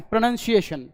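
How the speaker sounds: प्रोनंसिएशन starting on a short "pruh", not "pro"; short first vowel. Shown as a demonstration. Teacher showing the word written joined up, short first vowel. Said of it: "साथ में ऐसे लिखा है word जोड़कर तो ये है".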